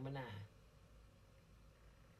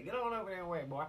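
dismissive officer; faster than usual. Retold or imitated. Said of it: "That's all they say".

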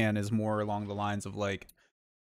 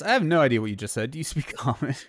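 louder baffled adventurer; 3 semitones higher, 5 dB louder, faster than usual. Acted. In-character repeat of line 35.

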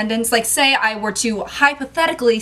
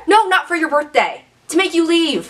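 higher, louder, fed-up snap at the customer; exasperated louder retort; 8 semitones higher, 4 dB louder than usual. Acted. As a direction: push back on the customer, openly annoyed.

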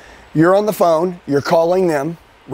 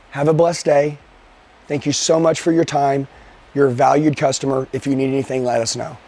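polite sign-off; 4 semitones lower than usual. Shown as a demonstration. Seller politely ending a call with a customer who said no. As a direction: thank them kindly and let it fade. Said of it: "You know what I say?".

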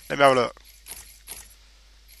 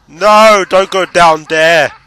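shouting; 6 dB louder, much slower than usual. Real, not acted. Yelling at fleeing game enemy.

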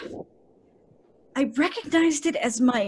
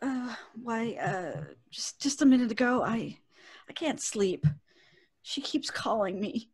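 much softer, lower, haunted; hushed and shaken; 3 semitones lower, 6 dB quieter than usual. Acted. Wife telling her husband about the voice, hushed and lower. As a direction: speak as if someone might hear.

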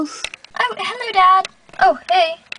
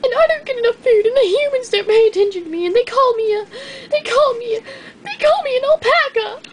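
quick, climbing, teary complaint; rising tearful whine; 4 semitones higher, faster than usual. Acted. Llama rants that humans call her an alpaca, getting teary. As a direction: build to a wail.

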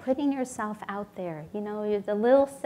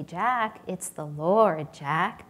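slow, lower divine voice; the Lord's voice; 3 semitones lower, 3 dB louder, much slower than usual. Retold or imitated. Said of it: "he hears the voice say".

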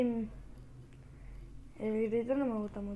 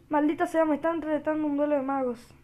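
higher, louder mock outrage; exasperated cursing; 4 semitones higher, 4 dB louder than usual. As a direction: cry out at the enemy's challenge. Cursing at a challenge in game.

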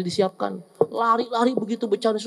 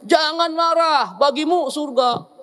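lightly voiced child, high and drawn out; child reciting hadith; 7 semitones higher, slower than usual. Kindergarten child reciting hadith translation to parents, lilting recitation. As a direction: recite it slowly in a higher child-like lilt.

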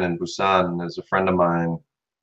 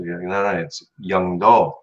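imitating co-teacher correction; slower than usual. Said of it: "my co-teacher would always say".

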